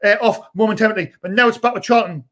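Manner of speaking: running fan commentary; live match commentary. Acted. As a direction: call the game for the live chat.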